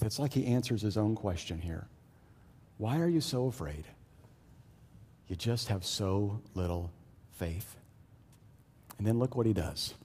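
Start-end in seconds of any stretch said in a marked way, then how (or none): 2.8-7.8 softer, lower, understated reproof; calm Jesus. Acted. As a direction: quietly reprove frightened followers. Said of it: "proves to be the calmest person on the boat".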